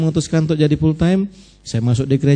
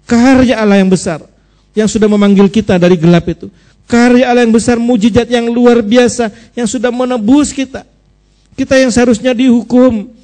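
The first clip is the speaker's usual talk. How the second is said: raised, high sermon voice building in volume; impassioned preaching; 7 semitones higher, 5 dB louder than usual. Real, not acted. Preacher proclaiming God's great work to the congregation, fervent preaching. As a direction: build phrase on phrase toward a loud, high peak.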